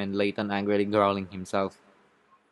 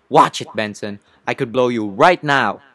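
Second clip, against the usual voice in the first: menacing warning; 7 dB louder than usual. Acted. Witness threatens the lawyer.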